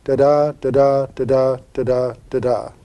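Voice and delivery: da-DA beats, steady and even; chanting da-da da-da to show the meter; iambic rhythm. Shown as a demonstration. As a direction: tap out the iambic beat with each da-da. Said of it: "a line that goes like this".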